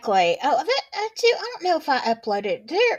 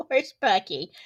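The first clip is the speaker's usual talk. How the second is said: laughing repeat; 3 semitones lower than usual. Real, not acted.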